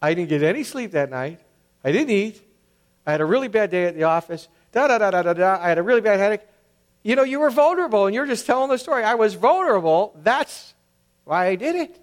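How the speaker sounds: playing the self-justifier listing excuses; a hint of a whining excuse; mock excuse-maker. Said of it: "I can go".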